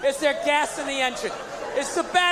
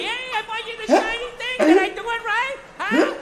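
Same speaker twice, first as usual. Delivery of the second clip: put-on eager boyfriend; 6 semitones higher than usual.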